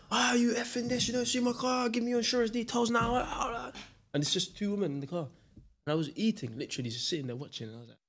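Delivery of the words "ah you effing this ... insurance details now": higher-pitched imitation of a ranting driver; mock angry rant. Cockney driver berating a mother over a tap, mock rant. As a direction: lampoon the driver having a go at her. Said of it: "he's just having a go at her".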